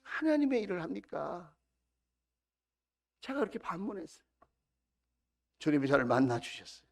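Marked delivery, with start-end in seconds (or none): none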